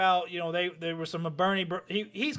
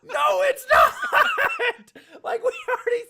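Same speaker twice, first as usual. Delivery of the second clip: much higher, louder, laughing disbelief; exasperated laughing shout; 5 dB louder than usual. Retold or imitated. Retelling buddy's Minnesota claim, exasperated laughing shout. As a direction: yell it through laughter like he's impossible.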